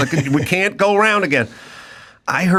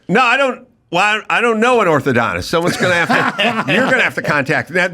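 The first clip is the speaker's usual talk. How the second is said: fast reboot chatter; 2 semitones higher, faster than usual. Retold or imitated. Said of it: "They reboot".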